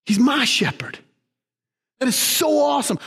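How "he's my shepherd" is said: hushed whisper on "He's my shepherd"; tender whispered confession. Real, not acted. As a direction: breathe it like a secret. Intimate whispered declaration.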